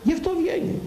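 high, sneering mock tone. Preacher mocks, high put-on voice. (κοροϊδευτική ψιλή φωνή)

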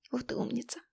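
soft, close whisper. A narrator's reading. Artyom praising Alisa, soft whisper. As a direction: whisper it just to her. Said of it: "шепнул он мне".

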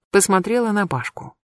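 ordinary delivery

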